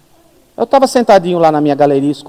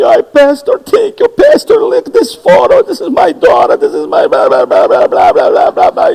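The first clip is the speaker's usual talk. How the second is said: much higher, louder, slow gushing; gushing thanks; 7 dB louder, slower than usual. Retold or imitated. American couple gushing thanks to the pastor, much higher and louder. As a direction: overflow with tearful gratitude in English.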